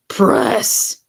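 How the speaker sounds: breathless, sighed out; sighed word. A narrator's reading. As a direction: let the word go on a sigh. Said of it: "he said with a sigh".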